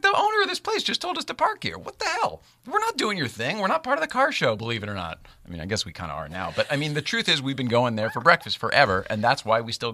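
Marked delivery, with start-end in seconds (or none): 0.0-5.2 much higher, exasperated retelling; hammed-up exasperation; mock indignant protest. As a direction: push back in a high pitched huff. Speaker retells his protest.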